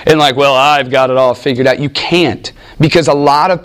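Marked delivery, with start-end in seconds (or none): 0.4-1.8 a touch of smug, self-satisfied preacher; lightly mock the arrogant know-it-all; pompous know-it-all. Warning against arrogance, mild mock pompous tone. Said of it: "You cannot be pompous".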